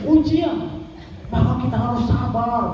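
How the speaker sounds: Abdul Somad impression. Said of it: "baru dengar Ustaz Abdul Somad".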